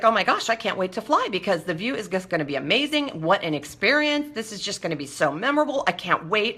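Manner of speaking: normal talking voice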